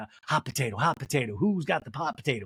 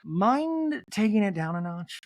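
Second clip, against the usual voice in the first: calm; 4 semitones higher, slower than usual. Retold or imitated. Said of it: "Denise calmly goes".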